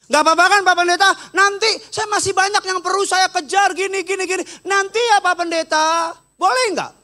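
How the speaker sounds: hammed-up pleading, stretched toward the end; mimicked stalling plea. Acts out official begging to postpone.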